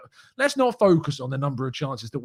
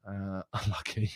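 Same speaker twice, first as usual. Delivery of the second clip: laughing mockery; 6 semitones lower, 11 dB quieter than usual. Real, not acted. Mocking Spurs fans.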